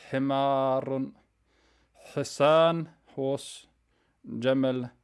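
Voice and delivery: each Arabic word said slowly, set apart by pauses; teacher reading a word list aloud; slow vocab reading. Shown as a demonstration. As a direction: read word by word for repetition. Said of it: "I'm gonna read them slowly, and I'm gonna read them with a pause".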